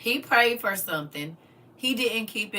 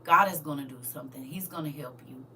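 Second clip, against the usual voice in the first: soft, comforting godmother, quieter; gentle comfort; 5 semitones lower, 4 dB quieter than usual. Retold or imitated. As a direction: soothe her like a loving godmother. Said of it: "She was like".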